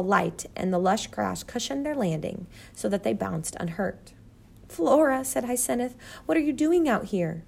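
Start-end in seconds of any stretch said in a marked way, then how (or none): 4.7-5.2 high, loud exclamation; startled, pitched up; surprised mother. A narrator's reading. Surprised mother greets daughter. 6.2-7.4 high, astonished asking; surprised question. A narrator's reading. Surprised mother questions daughter.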